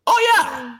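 high, drawn-out mock "Oh, yeah"; mimicking Tony's weird "Oh, yeah"; Tony's odd oh yeah. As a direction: ape his strange accent up high. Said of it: "And he'd be like".

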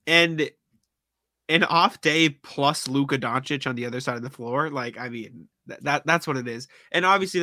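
talking through a blocked nose; stuffy, congested nose voice. Real, not acted. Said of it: "I apologize if I sound stuffy".

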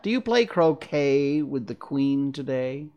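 amused cat, taking its time; snooty bored cat. Acted. The Cheshire Cat voiced in story.

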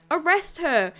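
loud, urgent command shout; yelling. Acted. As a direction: bark the order at your partner. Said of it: "the officer yells out".

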